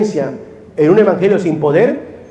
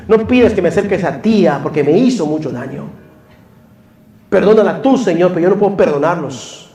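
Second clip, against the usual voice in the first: pleading prayer voice, a touch raised; voiced prayer; 3 semitones higher than usual. Preacher voicing a churchgoer begging God. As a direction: beg the Lord, half earnest.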